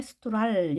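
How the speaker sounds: 스트랄 said with an "ah" vowel; alternative vowel reading. Shown as a demonstration. Teacher shows a possible misreading, 스트랄 with an "ah" vowel. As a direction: read the o as "ah" in 스트랄. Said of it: "이렇게 읽을 수 있겠지만".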